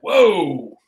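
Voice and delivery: loud, wide-eyed whoa; amazed whoa. Retold or imitated. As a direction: react with awe. Amazed at the green hills.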